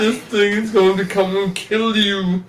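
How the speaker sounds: slow, hammed-up ominous warning; mock doom warning. Spoofing alarmist news about spiders, slow and ominous. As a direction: drag it out like a scary warning.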